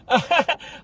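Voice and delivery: high fake laugh on cue; obligatory laugh at a bad joke; forced fake laugh. Coworker faking amusement at the egomaniac's joke, fake laugh.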